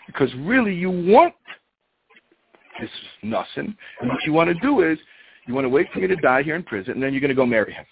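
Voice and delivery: mildly hammed-up accusation; accusing. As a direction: act out a husband accusing his wife. Husband accuses wife in acted quarrel.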